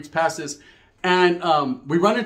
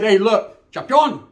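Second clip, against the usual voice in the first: louder, higher call across the yard; 4 semitones higher, 6 dB louder, slower than usual. Retold or imitated. Speaker calling over to his friend Champion, loud call. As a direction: shout his name to get his attention.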